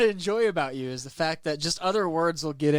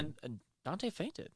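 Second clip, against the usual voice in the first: dramatic sigh; 13 dB quieter, slower than usual. Pretend. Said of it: "you add a big sigh".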